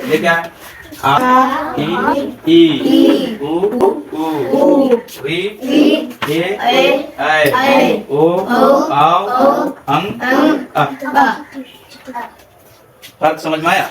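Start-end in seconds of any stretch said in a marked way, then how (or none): 1.0-10.8 drawn-out आ, ई, उ, each on its own; pronunciation drill. Shown as a demonstration. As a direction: lead a class chant of vowels from आ to अं. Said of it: "इसको हम pronunciation में पढ़ेंगे". (आ से अं तक लंबे स्वर, कक्षा को दोहरवाते हुए)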